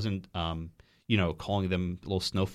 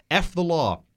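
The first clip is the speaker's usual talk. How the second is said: louder, higher shouted slogan; mock scream; 8 semitones higher, 6 dB louder, slower than usual. Retelling a student screaming at him, mock shout. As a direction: belt it out like a protester. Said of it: "a student screamed out".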